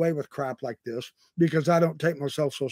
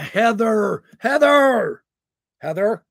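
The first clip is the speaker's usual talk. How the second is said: calling out, higher and louder; excited calling; 5 semitones higher, 6 dB louder, slower than usual. Real, not acted. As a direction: call her name with growing delight. Excitedly calling a viewer's name.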